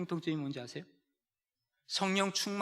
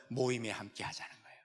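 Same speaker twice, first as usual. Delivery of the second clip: soft emphasis; 7 semitones lower, 7 dB quieter than usual. Shown as a demonstration. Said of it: "repeated emphasis".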